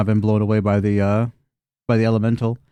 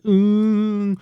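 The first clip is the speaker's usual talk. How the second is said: imitated impact groan; 8 semitones higher than usual. Mimics landing on one's side.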